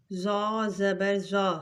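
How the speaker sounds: slow, thick ظا-style زا; heavy letter. Shown as a demonstration. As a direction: make the زا heavy and full. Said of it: "اس کو بھی ہم موٹا پڑھیں گے".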